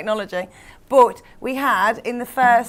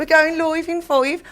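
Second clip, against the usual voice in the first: exaggerated Black Country accent, pitched up; mock a broad Black Country accent, vowels stretched; teasing, raised-pitch Black Country take-off; Bobby Davro mocking her accent; 5 semitones higher than usual. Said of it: "accent ripped apart ... including by Bobby Davro".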